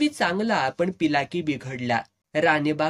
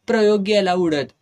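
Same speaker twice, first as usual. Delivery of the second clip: angry outburst; 4 semitones higher, 5 dB louder than usual. Retold or imitated. Heated quarrel with the owner.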